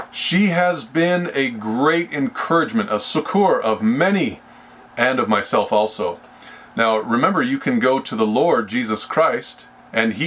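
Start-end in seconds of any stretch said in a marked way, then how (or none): 0.1-6.2 verse read out with a lifted start, settling at the end; scripture reading. Acted. Preacher reads how she helped many, lifted reading voice. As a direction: read scripture aloud, easing down to close.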